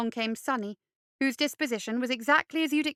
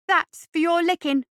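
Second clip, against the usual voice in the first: put-on scornful, louder high kid's voice; contemptuous; 6 semitones higher, 7 dB louder than usual. Radley scorning Boyle's threat, contemptuous sneer. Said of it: "Radley said contemptuously".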